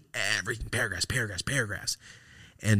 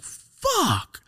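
shocked fuck; 4 dB louder than usual. Retold or imitated. Shocked reply to pneumonia news.

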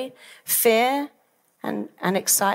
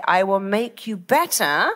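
firm promise with no doubt; confident promise. Shown as a demonstration. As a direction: promise it as a certainty. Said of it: "are very different to".

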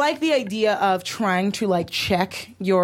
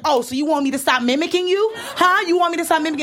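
taunting mimic; 6 semitones higher, faster than usual.

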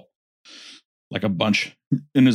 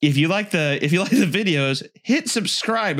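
Watch Mojo UK narrator; 7 semitones higher than usual. Acted. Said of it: "Thank you for watching Watch Mojo U K".

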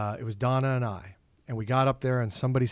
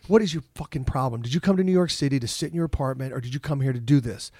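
mock self-scolding. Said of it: "I was like".

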